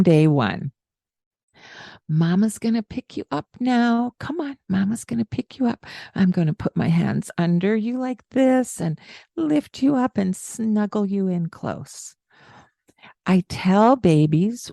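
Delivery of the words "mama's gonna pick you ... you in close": put-on narrating to baby. Shown as a demonstration. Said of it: "I narrate".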